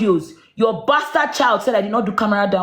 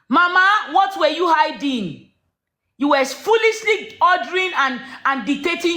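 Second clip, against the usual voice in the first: angry shout; 5 semitones higher than usual. Real, not acted. Accusing Mama during live argument.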